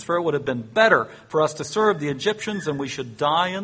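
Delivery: a hint of whining crowd; complaining Israelites.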